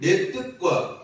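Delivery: 내 뜻과 drawn out slowly and loud for the congregation to echo; slow lead line. Shown as a demonstration. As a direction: say 내 뜻과 slowly, leading the call and response. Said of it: "따라서 해봅시다". (회중이 따라 하도록 내 뜻과를 천천히 크게)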